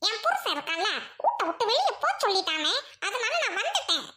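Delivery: wailing complaint to a brother; acted tearful whine. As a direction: pour out the grievance through tears. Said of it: "ஏன் அழுவுற?".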